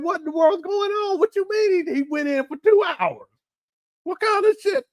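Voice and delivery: incredulous. Retold or imitated. Retold shocked reaction to ad.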